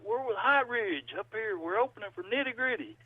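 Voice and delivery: playful high-pitched mimicry of a musician; imitated guitar player. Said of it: "he, he's like".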